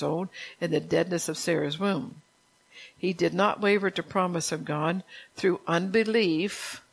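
measured, earnest Bible reading aloud; scripture reading. Acted. Reads scripture passage aloud.

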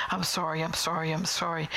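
quick run of apologies, imitated; effusive repeated apology. Someone kissing you half to death, effusive apology. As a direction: rattle off sorry after sorry. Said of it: "just kisses you half to death".

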